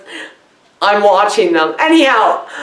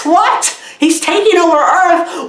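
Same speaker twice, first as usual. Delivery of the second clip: baffled what; 6 semitones higher than usual. Real, not acted. Baffled reaction to the movie.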